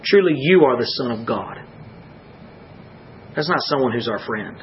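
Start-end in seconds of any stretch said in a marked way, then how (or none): 0.0-1.6 reverent address. Retold or imitated. Preacher repeating the boat's worship of Christ, reverent. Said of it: "talked to a friend in that tone".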